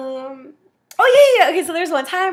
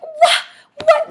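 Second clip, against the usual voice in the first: shocked what; 14 semitones higher, 7 dB louder than usual. Retold or imitated. Shocked reaction.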